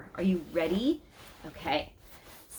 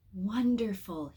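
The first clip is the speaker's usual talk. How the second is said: called out; 2 semitones higher, slower than usual. Acted. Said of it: "he called out".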